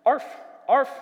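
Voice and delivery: short, sharp happy "arf"; happy dog bark. A narrator's reading. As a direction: bark like an excited little dog. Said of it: "Max barked happily".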